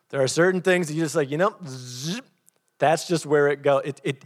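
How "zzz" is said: short buzzy zip noise; imitated zip sound. Shown as a demonstration. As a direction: make a quick zzz zipping sound. Imitates zipping noise while explaining restraint.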